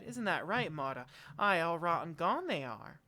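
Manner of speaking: lightly voiced seamstress, indignant and chatty; self-talking seamstress. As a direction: lightly play her agreeing with herself.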